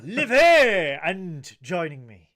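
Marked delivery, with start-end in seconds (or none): 0.0-1.0 high, loud mock cheer; loud echo. Host echoing his co-host's quip, loud and high. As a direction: shout it back as a joke.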